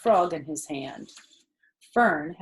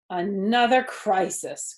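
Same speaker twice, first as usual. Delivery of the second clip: groaning; 4 dB louder than usual. Acted. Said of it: "groaned Fern".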